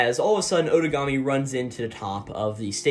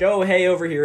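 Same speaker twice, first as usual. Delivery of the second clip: loud, higher call to grab attention; 6 semitones higher, 6 dB louder than usual. Retold or imitated. Otogami trying to get Eiji's attention, calling out. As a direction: holler over to an opponent as a decoy.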